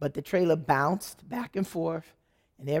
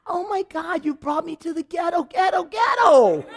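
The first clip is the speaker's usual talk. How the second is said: much higher, wailing complaint; mock despair; 10 semitones higher, 4 dB louder than usual. Wife wailing to her husband about the barn, much higher. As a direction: wail it in comic despair, high. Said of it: "I'm like".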